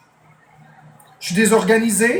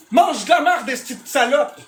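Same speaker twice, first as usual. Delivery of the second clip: higher, spat-out insult; furious insult; 4 semitones higher than usual. Real, not acted. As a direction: hurl it at the troll. Insulting a chatter.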